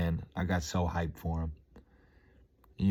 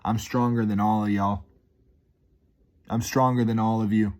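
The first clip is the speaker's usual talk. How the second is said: retold gym yell; 3 semitones higher, 5 dB louder than usual. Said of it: "I yell out".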